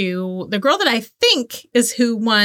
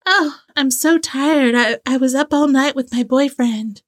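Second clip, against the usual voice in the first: whiny model voice; 6 semitones higher than usual. Retold or imitated. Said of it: "the model is like".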